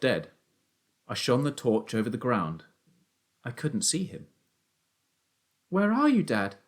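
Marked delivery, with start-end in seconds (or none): 5.7-6.6 put-on high, raised boyish call. A narrator's reading. Son cannot see his father, calling out. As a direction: call high, dropping on the last word.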